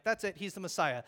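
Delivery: loud, eager realization; excited. Retold or imitated. Nathanael realizing Jesus is the Messiah, excited. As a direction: burst out with sudden conviction. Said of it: "Nathanael's like".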